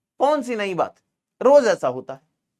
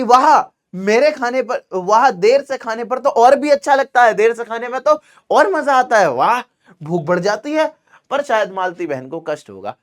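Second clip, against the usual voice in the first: cheerful polite guest; 4 semitones higher than usual. Shown as a demonstration. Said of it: "क्या कह रहे कि".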